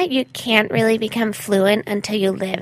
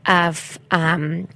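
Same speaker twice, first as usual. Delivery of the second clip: put-on self-absorbed gap-year girl; traveling white girl; slower than usual. Traveling white girl describing her journaling, self-absorbed. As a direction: play an oblivious traveler sharing her journey. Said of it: "is this a traveling white girl?".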